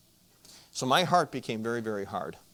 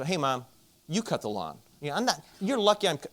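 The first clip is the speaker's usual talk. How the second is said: barking back; 5 semitones higher than usual. Retold or imitated. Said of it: "I just started barking at her".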